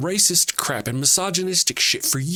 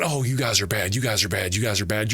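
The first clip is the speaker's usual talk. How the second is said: lower, sing-song mock scolding, over and over; mocking the right; 7 semitones lower than usual. Ranting vlogger mimics right-wingers scolding the left, mocking lower voice. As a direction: parrot their finger-wagging in a lower, dopey voice. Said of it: "they're over there going".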